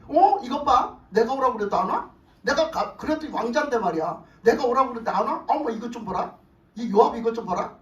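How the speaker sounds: mildly piqued prince who is not being obeyed; mildly provoked prince. Acted. Preacher voicing an annoyed Absalom when his summons is ignored, mild irritation. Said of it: "압살롬이 약이 올랐어요".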